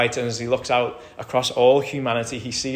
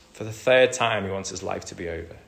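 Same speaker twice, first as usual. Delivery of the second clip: weary despair. Retold or imitated. Jonah voiced despairing, wanting death.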